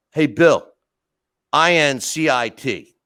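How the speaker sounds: loud, letters spelled out slowly; imitated voicemail message. Employee leaving his boss a cryptic voicemail, loud announcement. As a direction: leave a loud voicemail, spacing each letter.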